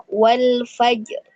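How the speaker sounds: wal fajr with the ra only half thickened, slow; faulty half-heavy ra. Shown as a demonstration. Teacher showing a student's faulty ra in wal fajr. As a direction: drag out wal fajr with a weak, unclear ra. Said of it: "seperti itu".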